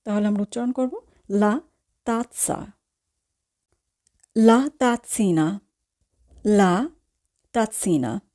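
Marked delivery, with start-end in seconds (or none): 1.3-2.7 "লা তাতসা" with zz split into t plus s; double z as ts. Shown as a demonstration. Teacher models Italian double z, "তাতসা" pronounced with t-s. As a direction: say "তাতসা" with a stopped t, then a dental s. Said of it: "প্রথম জেটের উচ্চারণ হবে খণ্ডতয়ের মতো".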